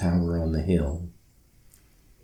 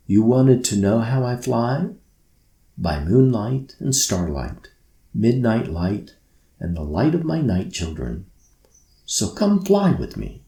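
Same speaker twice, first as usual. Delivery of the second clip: announcing; 3 semitones higher than usual. Acted. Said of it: "he announced".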